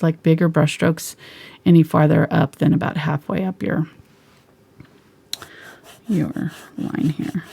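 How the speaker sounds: usual speaking voice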